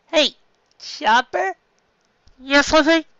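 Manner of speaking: high, loud doctor orders; high and loud, busy and cheerful; loud Chopper. Acted. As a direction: call out brightly as the little doctor.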